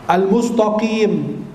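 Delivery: Al-mustaqim with a heavy, dark s and t, "mustoqim"; sin turned sod. Shown as a demonstration. Preacher imitating a misreading, Al-mustaqim with thick consonants. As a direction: thicken the middle of Al-mustaqim, drawn out slowly. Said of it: "Sinnya jadi sod atau taknya jadi ta".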